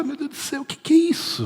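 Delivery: quase sussurrado, bem mais agudo; espanto contido. Retold or imitated. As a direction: murmure de espanto, incrédulo. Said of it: "Aí você fala". (espanto murmurado, pastor diante da fé da mulher)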